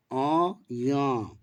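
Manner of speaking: अ, य said fully through the nose, nasal vowels; nasalized vowels. Shown as a demonstration. Teacher demonstrating chandrabindu nasal sounds, nasalized. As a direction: hum each sound through mouth and nose together. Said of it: "अ के ऊपर जब चंद्रबिंदु मात्रा लगती है".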